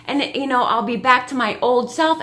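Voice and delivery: a hint of a wise little girl; mock child staying cool before the dentist; imitating Nova.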